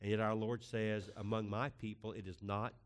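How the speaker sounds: hushed closing prayer. Acted. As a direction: pray quietly and reverently.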